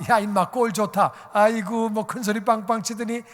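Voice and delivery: acted-out jeering telling-off; a touch of scornful ridicule; mocking scolding. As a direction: sneer lightly at a failed braggart. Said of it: "나를 좀 비웃을지도 몰라".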